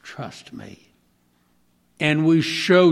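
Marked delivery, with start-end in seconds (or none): 0.0-0.9 soft, lower fatherly voice fading to a hush; God speaking tenderly. Retold or imitated. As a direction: gently reassure the child. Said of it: "He just simply says".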